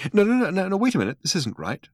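high, anxious protest; fretting, rising alarm; worried. A narrator's reading.

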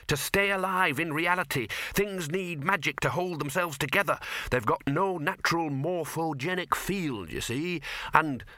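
a lightly voiced fussy academic; lecturing dean.

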